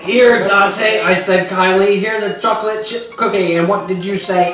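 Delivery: lightly acted scolding speech to Dante; hammed-up monologue, close to own voice; melodramatic confrontation. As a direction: play it as a mock-serious showdown.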